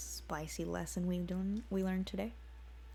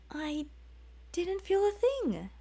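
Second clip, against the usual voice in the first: put-on complaining boy; 10 semitones higher than usual. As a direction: whine it like a boy let down. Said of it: "he complained".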